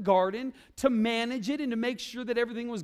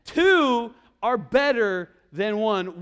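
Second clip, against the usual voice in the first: slow recitation; 6 dB louder, much slower than usual. Shown as a demonstration. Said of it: "recap of the verse".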